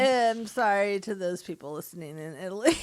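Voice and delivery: apology in a cartoon Italian accent; mock Italian, singsong apology; badly faked Italian accent. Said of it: "I sound like Mario".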